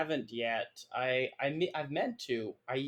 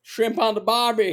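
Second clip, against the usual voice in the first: hammed-up caricature Australian accent, higher and louder; overdone Australian accent; 9 semitones higher, 7 dB louder than usual. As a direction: toss off a cartoon Australian accent. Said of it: "overdone Australian accent".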